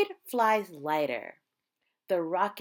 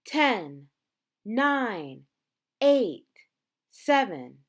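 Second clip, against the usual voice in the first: louder countdown, each number punched; countdown call; 6 dB louder, much slower than usual. A narrator's reading. Reading to children, calling the launch countdown loudly.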